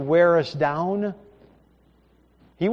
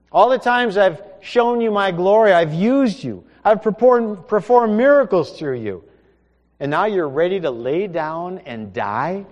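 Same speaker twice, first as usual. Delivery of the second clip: God's voice, louder and higher, stern; stern rebuke; 4 semitones higher, 6 dB louder than usual. Acted. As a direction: rebuke him for running away. God rebukes Elijah, preacher voicing.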